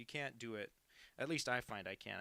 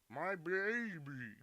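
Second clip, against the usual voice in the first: voice changer; 7 semitones higher, 4 dB louder, much slower than usual. Shown as a demonstration. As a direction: voice changer effect at full speed. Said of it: "full speed".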